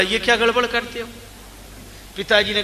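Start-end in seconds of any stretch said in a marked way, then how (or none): 0.0-1.1 indignant son. Acted. Son protests at sweet-seller.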